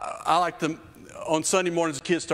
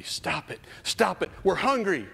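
mock kids yelling; 6 semitones higher than usual. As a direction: whine like hungry kids. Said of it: "they're yelling at me".

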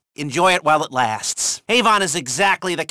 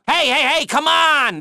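higher, urgent hey hey hey; alarmed protest; 9 semitones higher than usual. Acted. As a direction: stop them mid-mistake, exasperated. Handler scolding player's mistake.

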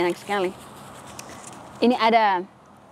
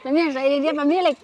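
laughing; 7 semitones higher than usual. Real, not acted. Delighted by owner's follow.

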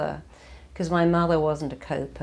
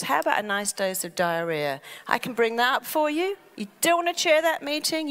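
higher, faster mock-cheerful offer; the mind cheerfully offering illness, higher and quicker; helpful mind voice; 7 semitones higher, faster than usual. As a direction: sell the diarrhoea like a chirpy helper. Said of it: "your mind goes".

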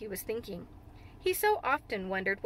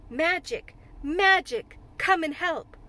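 louder and higher, calling out; rising invocation; 5 semitones higher, 6 dB louder, slower than usual. Acted. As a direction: cry out to the magic. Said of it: "He said it a great many times".

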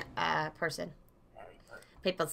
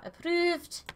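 rising, unforced pitch lift; questioning approval; 6 semitones higher, 4 dB quieter than usual. Real, not acted. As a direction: say it tentatively, lifting upward. First reading of stamp.

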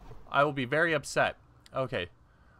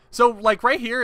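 voice cracking up an octave; 6 semitones higher, 5 dB louder than usual. Real, not acted. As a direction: voice cracks high mid-sentence. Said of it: "wow, my voice cracked".

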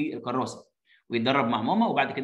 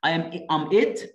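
slow model reading; much slower than usual. Shown as a demonstration. Reading child's line slowly.

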